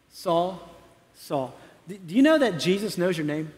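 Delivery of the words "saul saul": gentle call. Acted. Pastor voices Jesus calling gently.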